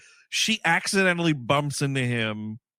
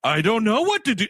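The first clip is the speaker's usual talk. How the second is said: high, mildly yelled cop impression; mock screaming; 5 semitones higher, 3 dB louder than usual. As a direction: imitate a flustered cop yelling, half-strength. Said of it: "screaming into a fucking radio".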